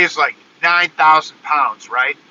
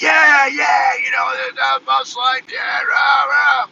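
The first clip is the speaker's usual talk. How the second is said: higher, hyped-up playful chant; goofing around for the camera, pitched up; mock hype voice; 9 semitones higher, slower than usual. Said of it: "I'm like".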